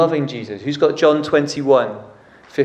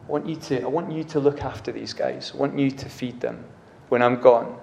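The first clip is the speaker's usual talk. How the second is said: gentle Jesus; 5 dB quieter than usual. Retold or imitated. Jesus voiced softly.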